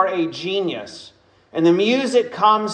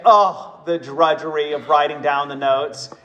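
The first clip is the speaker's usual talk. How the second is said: mock complaint; 2 semitones lower than usual. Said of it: "I would hear myself say".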